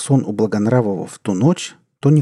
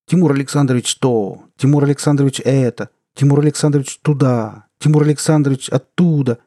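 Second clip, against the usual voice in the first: irritated sing-song mimicry; mocking repetition; 5 semitones higher, 5 dB louder than usual. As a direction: rattle off the orders with rising annoyance. Mocking the boss's constant orders.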